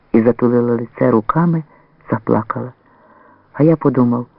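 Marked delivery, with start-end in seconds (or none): none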